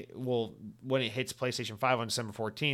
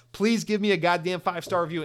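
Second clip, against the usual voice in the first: mock scream; 4 semitones higher, 4 dB louder than usual. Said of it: "screaming at the top of my lungs".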